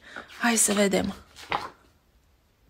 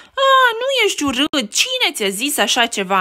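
siblings reassuring; 4 semitones higher, 3 dB louder than usual. Acted.

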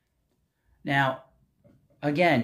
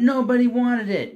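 higher and louder, hammering the point home; emphatic loud climax; 7 semitones higher, 5 dB louder than usual. Real, not acted. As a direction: shout the final Nobody wanted it. Climax of list, rant.

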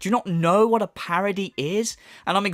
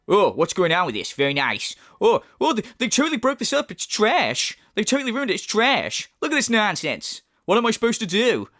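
exaggerated whiny gamer rant, higher and faster in the middle; mock rant; 3 semitones higher than usual. Mimicking friend raging at Starfield's grav jump, hammed-up whine. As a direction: ham up a frustrated player trashing the game. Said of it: "and you were going".

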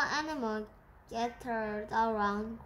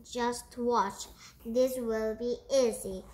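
loud, bossy elephant voice; a big beast bragging, pushing to the front; boasting elephant; 4 dB louder than usual. Acted. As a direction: shove everyone aside and brag. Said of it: "he boasted".

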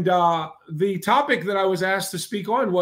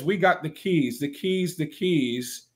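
A music star's voice; 3 semitones lower, slower than usual. Retold or imitated. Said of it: the speaker calls it their voice of that music star.

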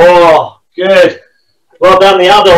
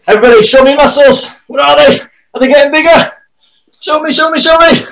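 playful coaxing; 4 semitones higher than usual. Real, not acted. Kids' coach playful prompt.

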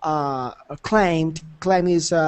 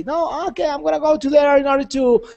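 mock-angry complaint, voice pitched up high; furious customer; 5 semitones higher, faster than usual. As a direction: play the furious client demanding service. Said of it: "she's very furious".

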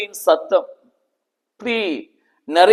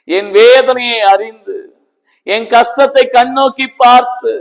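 Hannah praying in tears. Retold or imitated. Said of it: "உட்கார்ந்து அழுறா".

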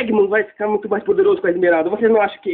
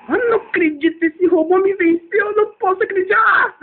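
outraged disbelief; 9 semitones higher than usual. Acted. Character loses to robot.

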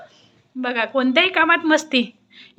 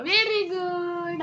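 cooing praise; 4 semitones higher, 6 dB quieter, much slower than usual. Real, not acted. Praising the child warmly. (लाडाने, हळुवार शाबासकी)

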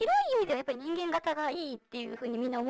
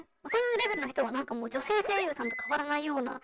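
vocoder. Real, not acted. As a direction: voice changer voice. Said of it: "今私がやってるようにボイスチェンジャー使ってる". (ボイスチェンジャーの声)

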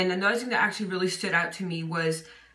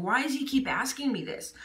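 mildly exasperated, pitched higher; higher-pitched mock frustration; frustrated; 6 semitones higher than usual. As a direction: complain in mild frustration, imitating someone fed up. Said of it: "Peter gets frustrated".

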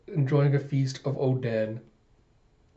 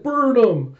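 high, loud pretend shout; hammed-up rallying yell; mock witch-hunt cry; 10 semitones higher, 7 dB louder than usual. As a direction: call it out like a mob member. Acted witch hunt order.

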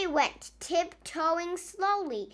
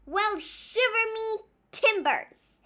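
amazed; 8 semitones higher than usual. Acted. Noodle amazed.

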